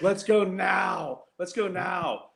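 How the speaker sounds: slow, drawn-out mock shout to get moving; half-shouting each word like a panicked brother; retold urgent shout. Brother at leaking gas pump urging everyone to leave, slow mock shout. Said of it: "He's screaming".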